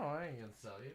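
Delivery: teasing whispered refusal; whispering. Real, not acted. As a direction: whisper the no, secretive. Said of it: "You're whispering right into the mic".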